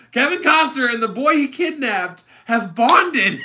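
high, loud, laughing as tears come; laughing through tears. Real, not acted. Describing the movie ending to a friend, laughing and near tears. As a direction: laugh while choking up. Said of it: "I'm gonna start crying now".

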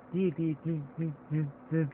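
imitated music. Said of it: "These are just all like".

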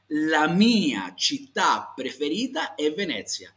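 slow, carefully articulated Italian for learners; deliberate language-teacher delivery; repeat-after-me model. Shown as a demonstration. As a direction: space out each word so students can copy. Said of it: "hazlo conmigo".

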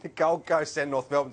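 tongue-in-cheek hype with a chuckle; bill it as a big clash, half laughing; facetious. Real, not acted. Host introducing tonight's game, facetious. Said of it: "I'm being a bit facetious".

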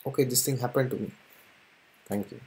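soft, accepting thank you said with a smile; quietly thankful, accepting what came; smiling thank you. Pretend. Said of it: "when I smile and say".

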